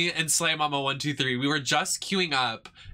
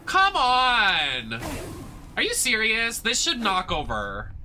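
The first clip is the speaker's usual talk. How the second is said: indignant gamer outburst, pitched way up; real frustration; 9 semitones higher, slower than usual. Real, not acted. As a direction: cry out in disbelief at the game. Frustrated at game object not moving.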